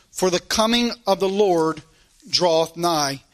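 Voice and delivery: measured King James reading voice; scripture reading. Acted. Preacher reading James aloud to his congregation, solemn. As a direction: read the verses out with weight.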